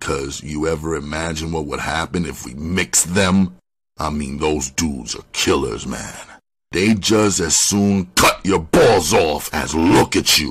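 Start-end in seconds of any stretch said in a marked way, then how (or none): none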